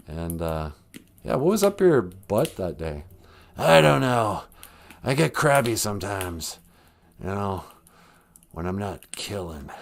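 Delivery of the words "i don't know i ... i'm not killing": lightly raspy creepy actor; understated murderous rasp; Alec Baldwin. Acted. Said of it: "a murderous rasp to his voice".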